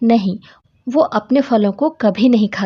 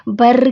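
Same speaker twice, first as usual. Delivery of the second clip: rolled-r imitation of buzzing; spoken buzzing noise with rolling r; bumblebee buzz; 3 dB louder than usual. Shown as a demonstration. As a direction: trill it like a bee. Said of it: "वो कैसी आवाज़ करते हैं".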